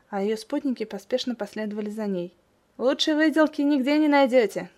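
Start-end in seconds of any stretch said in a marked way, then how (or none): 2.8-4.7 raised, loud hawker's shout; calling after them. A narrator's reading. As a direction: shout it after departing customers, pitched high. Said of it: "крикнул им вслед Лигант".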